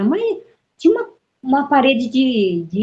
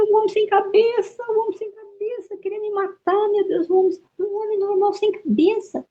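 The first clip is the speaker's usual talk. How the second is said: retold panicked cry; 12 semitones higher than usual. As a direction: re-enact waking up screaming in panic, voice pitched way up. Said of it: "Aí eu gritei, gritei".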